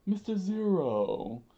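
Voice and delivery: high, loud, drawn-out cry; long panicked call; screamed name. Acted. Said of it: "Mister Three screamed".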